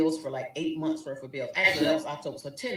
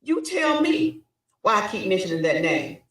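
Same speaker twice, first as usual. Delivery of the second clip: cold fury; 5 semitones higher, 6 dB louder than usual. Retold or imitated. Wife turning the question back on her husband, cold. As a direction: throw it back at him. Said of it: "And I was like".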